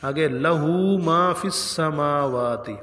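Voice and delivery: slow recited لہو with the ہو drawn out; recitation demo. Shown as a demonstration. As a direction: chant لہو ما فی السماوات slowly. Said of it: "اس کو بھی بڑے لوگ غلط پڑھتے ہیں". (آہستہ تلاوت)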